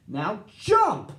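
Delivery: urgent shout. A narrator's reading. Gordon urging Big Bird to jump, loud shout. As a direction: order him to leap now. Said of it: "Gordon said".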